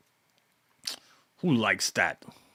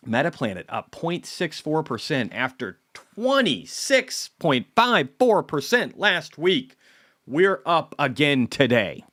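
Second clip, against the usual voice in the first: higher, louder, slow excited readout; cheering the stock gains, slowly; 8 semitones higher, 5 dB louder, slower than usual. Real, not acted. Streamer to viewers, reading stock gains: excited slow announce.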